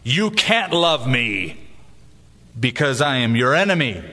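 retold near-shout. Enemy rejecting a pastor's love, understated near-shout. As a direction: read the enemy's words with restrained force. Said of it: "He was almost shouting".

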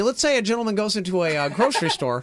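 put-on wholesome 1950s kid voice; goofy golly-gee square; Dave Chappelle white guy. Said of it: "impression of Dave Chappelle's impression of white people".

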